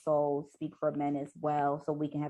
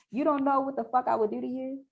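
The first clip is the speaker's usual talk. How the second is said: higher-pitched heated warning; acted threat; 8 semitones higher than usual. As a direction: threaten her in the heat of a quarrel. Acting out his threat in quarrel.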